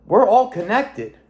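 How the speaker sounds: high, slow, ringing "we're all connected"; drawn-out wonder, like a revelation hitting; awed realization. Retold or imitated. To himself in the car, high and slow with awe. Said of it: "I'm like".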